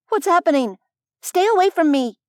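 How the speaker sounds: high, alarmed outcry; panicked squeak. A narrator's reading. Alice backs away from the stalking Fey, panicked squeak. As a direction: cry out in panic, pitch jumping up. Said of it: "Alice squeaked, backing away".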